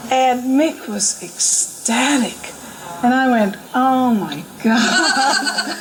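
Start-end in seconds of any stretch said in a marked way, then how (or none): 3.7-5.8 laughing oh my God. Retold or imitated. Retold dismay at eight-hundred-mile detour.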